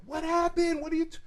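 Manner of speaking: loud, high, alarmed questions; hammed-up panicked relative on the phone; imitated alarmed uncle. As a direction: demand to know, as the startled uncle. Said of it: "And he's like".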